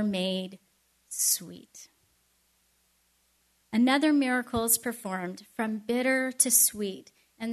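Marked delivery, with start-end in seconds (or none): 0.0-1.9 hushed wonder. A narrator's reading. Preacher telling the congregation the waters turned sweet, whispered. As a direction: whisper "sweet." low and airy.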